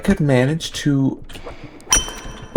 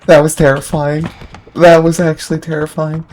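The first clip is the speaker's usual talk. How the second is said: shaken and loud; 5 semitones higher, 5 dB louder than usual. Real, not acted. After near death.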